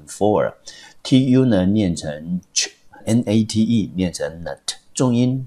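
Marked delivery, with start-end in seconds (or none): 0.1-3.2 for and ch sounded out very slowly; syllable by syllable. Shown as a demonstration. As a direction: break the word into slow separate sounds. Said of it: "我们念成for，T U呢念成ch".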